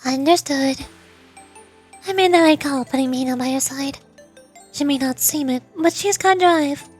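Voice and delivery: lightly voiced, poised president character; composed student president. President checking on the visitor's work, lightly voiced composure.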